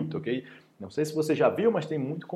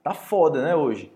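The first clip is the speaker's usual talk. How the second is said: fed-up complaint; 4 dB louder, slower than usual. Acted. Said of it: "eu tô indignado, eu tô com raiva".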